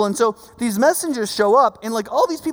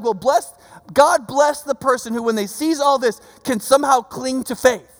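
mildly exasperated sarcasm, pitched up; sarcastic; 4 semitones higher, 4 dB louder than usual. Retold or imitated. Jesus answering John's messengers about scarce faith, sarcastic. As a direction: imitate sarcastic praise, emphatic and higher. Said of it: "is being sarcastic".

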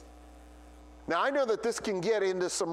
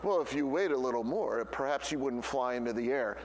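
lower, prim and lecturing, lightly voiced; educated Owl; 8 semitones lower than usual. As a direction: sound like a pompous wise old owl. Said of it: "Owl would come along and say these very educated things".

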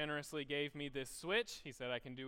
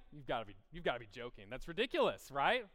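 exasperated parent; 2 semitones lower than usual. Retold or imitated. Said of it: "Parents would be like".

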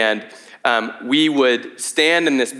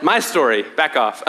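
laughing through a playful jab; 2 semitones higher than usual. Real, not acted. Pastor defending his story to the congregation, laughing. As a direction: tease the crowd while laughing.

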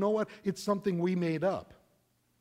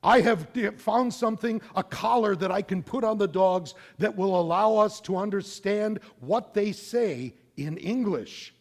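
higher, louder eager announcement; excited scientist; 5 semitones higher, 6 dB louder than usual. Acted. Cartoon scientist to listeners, excited and raised. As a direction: proudly present the big discovery. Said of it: "a scientist says".

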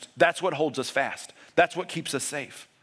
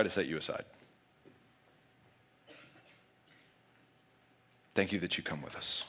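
soft, lower prayer voice; 6 semitones lower, 3 dB quieter than usual. Acted. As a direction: pray quietly for the congregation. Leads closing prayer.

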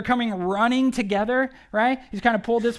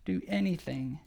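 pleading father; 3 semitones lower than usual. Retold or imitated. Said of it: "he makes this one plea".

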